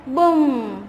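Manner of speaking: drawn-out "बूम"; long, falling boom word; firecracker boom imitation. Shown as a demonstration. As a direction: stretch the boom to its hum. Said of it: "उस sound को क्या बोलते हैं".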